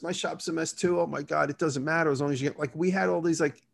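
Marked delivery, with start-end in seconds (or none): 0.0-2.6 lightly voiced giddy teen crush, higher; teenage lovers. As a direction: gush like smitten kids. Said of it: "Teenage lovers".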